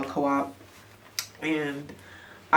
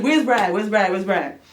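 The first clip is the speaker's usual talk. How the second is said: put-on storming in hunting the boyfriend, then calming; angry demanding; 3 semitones higher than usual. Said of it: "So I'm like".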